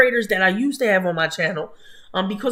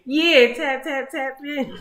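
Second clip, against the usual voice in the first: laughing; 6 semitones higher, slower than usual. Real, not acted. Laughing repeat of tap in.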